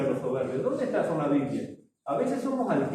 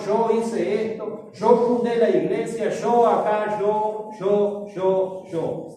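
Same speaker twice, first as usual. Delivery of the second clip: boastful Pharisee; 3 semitones higher, slower than usual. Acted. Preacher acting the Pharisee boasting to God, slow proud brag. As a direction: puff up and hammer each yo.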